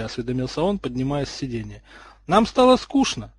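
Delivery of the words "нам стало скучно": high, slow, sheepish admission; drawn-out embarrassed excuse in a high voice; abashed. A narrator's reading. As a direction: shrink back bashfully, pitched well up. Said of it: "стушевалась Блейз".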